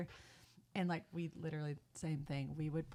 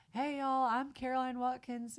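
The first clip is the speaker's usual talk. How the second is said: higher, louder greeting to a crowd; pitched-up performer introducing herself; sister's stage introduction; 5 semitones higher, 3 dB louder than usual. Retold or imitated. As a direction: imitate a rehearsed stage hello. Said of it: "And she'd go".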